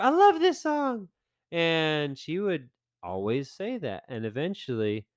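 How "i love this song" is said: high, gushing, slow "Oh, I love this one"; gushing wife. Retold or imitated. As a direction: gasp then gush with delight.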